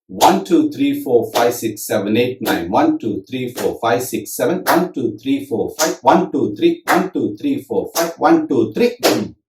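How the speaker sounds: counting out the combination in beats; rhythmic counting. Shown as a demonstration. Teacher counts the beat pattern aloud in strict time. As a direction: tick off nine seven five three in strict rhythm. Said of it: "this is how it sounds".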